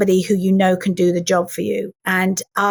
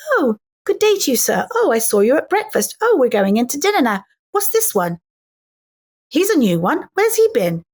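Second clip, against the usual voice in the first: posh first-class passenger; 3 semitones higher than usual. Retold or imitated. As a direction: play a gossiping first-class lady on the ship. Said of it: "first class going".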